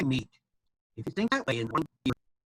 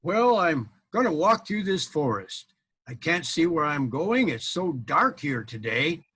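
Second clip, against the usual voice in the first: knight groping in the dark; 2 semitones higher, slower than usual. Acted. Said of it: "I'll pretend I'm him".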